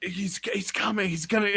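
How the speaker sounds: high, stammered mock alarm; mock warning. Concussed teen warns that Venom is coming, mock panicked. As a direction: imitate panic, on the edge of laughing. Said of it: "I was trying to warn people".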